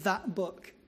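spat words. Retold or imitated. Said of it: "he spat the words".

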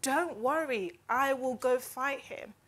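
slow, assured imitation of David; courageous and bold. David offering to fight Goliath, slow and confident. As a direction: declare it calmly, sure of winning. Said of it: "said with so much courage".

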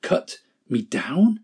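slow, shaken question; stunned disbelief. Acted. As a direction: repeat it as if you can't believe it. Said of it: "A trembling of great horror shook Bamboo".

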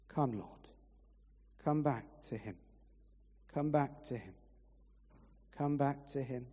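earnest prayer over the room; earnest pastor praying aloud; pastoral prayer. Real, not acted. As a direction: pray it sincerely over the people. Pastor prays over congregation.

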